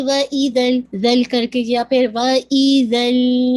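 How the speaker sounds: clipped الْ in وَإِذَا without time; wrong rushed version. Shown as a demonstration. Teacher showing students a wrong recitation. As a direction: rush through وَإِذَا الْ. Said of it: "ایسے بھی نہیں".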